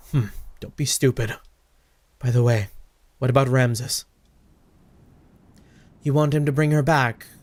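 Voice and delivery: lightly voiced low, cool schemer; scheming game figure. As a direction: read it low and controlled, like a plotting villain.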